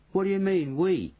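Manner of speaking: high, indignant challenge; affronted boy's question. A narrator's reading. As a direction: object as if insulted. Bruno objects to being called mouse.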